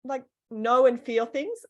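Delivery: high, searching imitation of the masseur; masseur quoted. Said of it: "She said".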